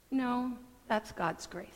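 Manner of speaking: gentle answer. Acted. Believer answers friend gently.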